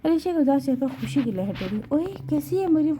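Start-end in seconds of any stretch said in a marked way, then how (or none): 1.9-2.9 put-on higher, delighted call to an old friend; light up at hearing a friend; happy greeting. A narrator's reading. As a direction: Alisha greets her friend Mariam with joy. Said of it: "خوشی سے بولی".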